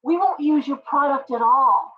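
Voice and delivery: high, defiant mock voice of fed-up shoppers; mock defiance, pitched high; defiant consumers. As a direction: toss it off like a customer calling their bluff. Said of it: "they're like".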